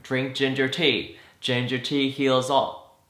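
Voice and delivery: slow, drawn-out Southern parent voice; mock Southern drawl; Southern accent. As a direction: quote the parents in a Southern twang. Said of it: "Why am I talking like I'm Southern?".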